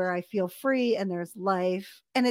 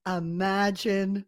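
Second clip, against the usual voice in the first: slow emphasis; slower than usual. Real, not acted. Repeats it slowly to sink in.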